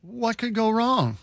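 drawn-out, mock-innocent sarcasm; dry sarcasm with exaggerated emphasis; sarcastic. Real, not acted. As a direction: lay on the sarcasm, stretching the key words. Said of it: "I feel like you're being sarcastic".

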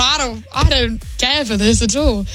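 mild retold indignation, lilting pitch; mock furious. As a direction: act out being fed up, without raising your voice.

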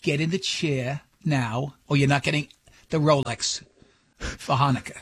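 lightly voiced mother bargaining sternly; Jewish mom impression. Jewish mom threatening Seth over Hanukkah gift, measured scolding. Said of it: "the classic Jewish mom".

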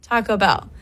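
an easy, everyday "Taco Bell"; normal emphasis. Shown as a demonstration. Co-host demonstrates for the host, natural stress. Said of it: "emphasis on where it normally sits".

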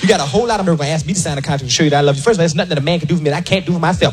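fast tirade climbing in pitch; indignant woman ranting. Acted. Acted woman's quarrel over prenup.

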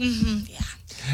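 low, very soft confirmation; retold nurse's murmur. Nurse gently confirming a patient's age, imitated soft and low. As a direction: drop to a quiet, low mm-hmm. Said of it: "And she was like".

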